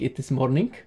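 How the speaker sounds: Romanian-English accent with "morning" ending in a hard k; light Transylvanian accent, "morning" said as "mornink". Shown as a demonstration. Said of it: "They have a silent K".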